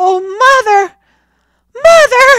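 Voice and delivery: very high, very loud, shrill terrified scream. A boy alone on a buoy, struck by waves, calls for his mother: screaming in terror. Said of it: "screamed Johnny in terror".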